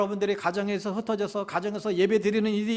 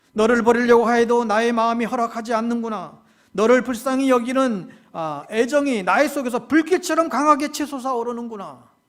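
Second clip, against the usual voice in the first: fervent outcry; 5 dB louder than usual. Acted. God's burning love voiced.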